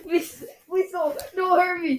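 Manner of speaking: high, laughing mock plea. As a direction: beg through laughter. Pleading with grandma, laughing.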